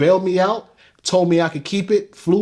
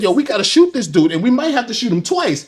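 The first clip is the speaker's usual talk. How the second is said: retold alarm; 6 semitones higher than usual. Retold panic at giant man.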